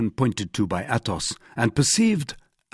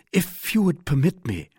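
a touch of timidity, higher pitch; tentative, politely raised voice; 6 semitones higher than usual. A narrator's reading. Young Gascon offering help to a wounded musketeer, mildly timid. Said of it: "said D'Artagnan with timidity".

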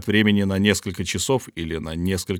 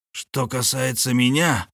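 plain reading voice

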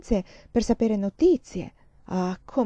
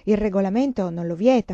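firm and louder, matter-of-fact; insistent statement; 6 dB louder than usual. Acted. Nun stating the rule, firm and louder. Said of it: "La suora insisteva".

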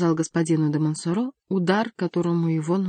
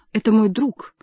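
high, louder exclamation; exclaiming; 4 semitones higher, 6 dB louder than usual. A narrator's reading. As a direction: speak up hotly for a friend. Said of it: "воскликнул Сен-Люк". (громкое восклицание)

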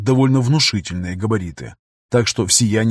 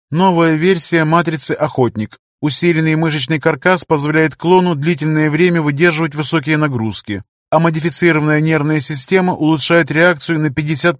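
mechanical voice; 5 semitones higher than usual. Acted. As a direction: read the specs like a machine. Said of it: "механический голос".

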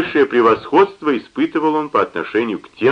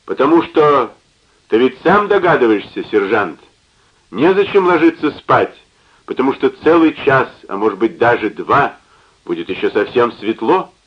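put-on drunk rambling, words slurring; slurred drunk speech. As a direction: talk through a drunken slur. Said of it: "начал он рассуждать заплетающимся языком".

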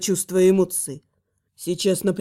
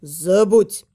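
hissing reptile growl; 3 dB louder than usual. Acted. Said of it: "рыкнул ящер".

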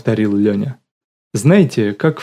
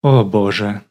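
sighing. A narrator's reading. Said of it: "вздохнула Лола".

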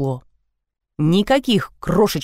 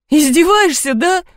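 high, loud exasperated wail; wailing outburst; 10 semitones higher, 4 dB louder than usual. A narrator's reading. Seryozha wails at his sister for mocking him, loud and high. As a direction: howl it out, fed up. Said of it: "взвыл Серёжка".

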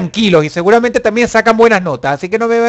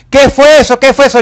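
lightly voiced annoyed mom, a bit louder; a mild mock of a mother bursting in; angry mom; 5 semitones higher, 4 dB louder than usual. Mom storming in over the noise, mock annoyed. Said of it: "si llega tu mamá molesta, enojada".

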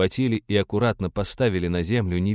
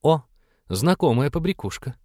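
mocking elf girl; 6 semitones higher than usual. A narrator's reading. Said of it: "заявила вдруг эльфийка-полукровка".

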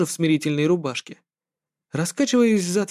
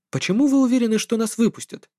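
insistent question; 6 semitones higher than usual. Acted. The hero questions the professor insistently.

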